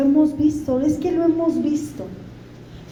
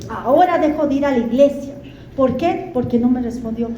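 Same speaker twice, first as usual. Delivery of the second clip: annoyed complaint. Retold or imitated. Preacher mimics people angry at God, mild mock grumble. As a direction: sulk at God, lightly peeved. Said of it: "gente que se enoja con Dios y dice".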